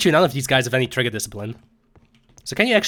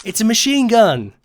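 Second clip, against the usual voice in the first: quoting a video; 9 semitones higher, 5 dB louder than usual. Retold or imitated. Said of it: "like that fucking video".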